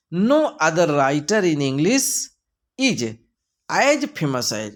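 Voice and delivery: slow, stretched reading; slow reading aloud. Shown as a demonstration. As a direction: read the question slowly. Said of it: "reads question slowly". (धीरे-धीरे प्रश्न पढ़ना)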